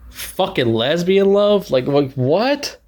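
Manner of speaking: slow disbelieving outburst; drawn out, stunned disbelief; incredulous. Real, not acted. Ranting to viewers about the ending, disbelieving.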